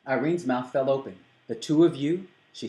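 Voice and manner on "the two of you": surprised. A narrator's reading. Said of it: "Surprise apparently stole her breath".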